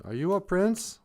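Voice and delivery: lightly voiced hopeful princess. Princess asking each frog in the swamp, lightly voiced. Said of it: "she goes".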